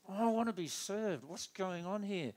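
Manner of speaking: lightly voiced impatient customer; inner frustration. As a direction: voice the impatient thoughts at the counter. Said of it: "You could feel this".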